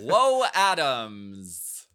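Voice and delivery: slow, drawn-out Welsh-style sign-off; hammed-up Welsh accent; mock Welsh accent. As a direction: stretch the name out in a put-on Welsh lilt. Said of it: "I don't know what that accent was".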